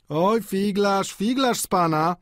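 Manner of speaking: high, drawn-out teasing; singsong playful ribbing; jokingly. A narrator's reading. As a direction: tease with playful relish. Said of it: "powiedział malarz żartobliwie".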